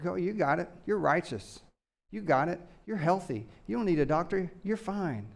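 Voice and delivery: soft, offhand mock reassurance; understated sarcasm, softly dismissing them; sarcastic. Jesus telling the self-righteous they are healthy, understated sarcasm. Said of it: "He's being sarcastic".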